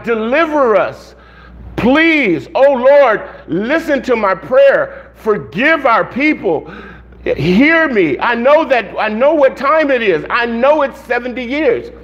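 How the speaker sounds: urgent, measured pleading; begging God. Acted. Prophet begs God to deliver his people, earnest pleading. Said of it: "he's begging God".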